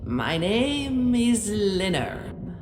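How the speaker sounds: lightly voiced hoarse old man; a hint of a frail old man. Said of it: "in a hoarse but warm voice".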